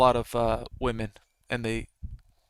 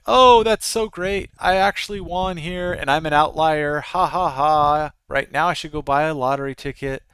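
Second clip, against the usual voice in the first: mock gleeful winner; 4 dB louder than usual. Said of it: "they're like".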